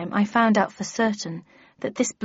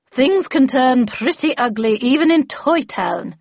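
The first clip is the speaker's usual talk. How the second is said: lightly voiced seasoned veteran, emphatic; emphatic cautionary character voice; Miss Havisham, warning; 4 semitones higher, 5 dB louder than usual. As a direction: warn firmly, a bit higher and louder.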